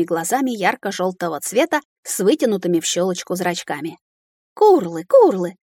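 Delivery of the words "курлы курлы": lamenting creature cry, each call falling; louder, wailed dragon call; wailing dragon. A narrator's reading. Startled dragon recoiling from her shriek, wailing. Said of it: "запричитала эта морда".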